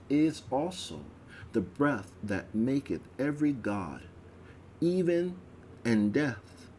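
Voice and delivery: measured, reverent priestly oration; solemn invocation. Acted. Priest praying before the veil, solemn and reverent. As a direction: address the hidden god with awe.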